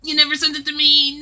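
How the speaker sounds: ordinary talk, nothing marked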